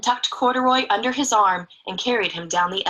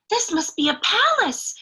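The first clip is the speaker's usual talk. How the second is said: higher, hushed amazement at the palace; awed gasp; 9 semitones higher than usual. Acted. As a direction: gasp it out in wonder. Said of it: "Corduroy gasped".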